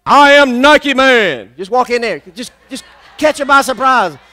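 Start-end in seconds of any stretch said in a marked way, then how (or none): 0.0-1.5 preacher shouts the confession loud; shouting it out. Shown as a demonstration. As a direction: shout it to the rafters. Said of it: "You gotta shout it".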